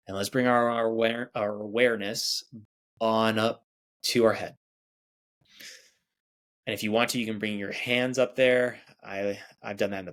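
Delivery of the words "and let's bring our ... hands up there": guided meditation. Acted. Meditation guide leading listeners through breathing, soothing. Leads a guided body scan.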